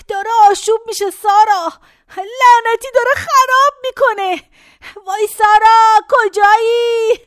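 high, rising panic calling for help; high frantic calls for the nurse; panicked in pain. Acted. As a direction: cry out for Sara, frightened and hurting. Old woman in pain calls Sara.

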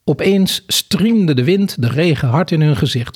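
measured read-aloud storytelling; story narration. A narrator's reading. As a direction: read the scene out with deliberate phrasing. Reads a story passage aloud. (rustig voorlezend vertellen)

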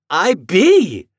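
put-on boy answering his doubting mother; triumphant. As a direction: crow it in triumph. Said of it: "answered Homer triumphantly".

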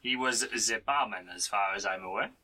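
lightly played French character accent. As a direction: put on a Frenchman's English. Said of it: "say that in a French accent".

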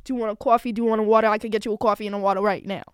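fast chatty New York accent. Shown as a demonstration. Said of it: "I could do a New York accent like this".

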